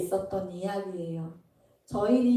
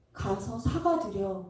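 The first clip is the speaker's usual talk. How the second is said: calm gentle instruction; 3 semitones lower, slower than usual. Retold or imitated. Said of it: "예수님이 저한테 뭐라 그러셨냐면".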